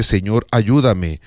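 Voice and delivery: an unhurried humble plea; simple prayer. Shown as a demonstration. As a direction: say it slowly, as a trusting prayer.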